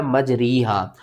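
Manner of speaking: मजरीहा with a long ee after र; common misreading. Retold or imitated. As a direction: say मजरीहा with री as "ree". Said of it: "बहुत से लोग confuse होते हैं, वो पढ़ते हैं". (मजरीहा, 'री' की ग़लत आवाज़ के साथ)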